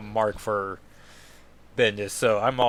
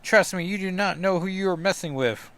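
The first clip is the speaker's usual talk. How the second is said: lightly acted villain, pitched up; the Hood; 7 semitones higher than usual. Villain telling the telepath to leave his head, high-pitched protest. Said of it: "He's like".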